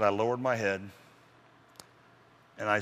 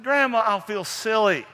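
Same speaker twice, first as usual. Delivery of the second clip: embarrassed grandson; 10 semitones higher, 6 dB louder, slower than usual. Acted. Jack protesting, slow.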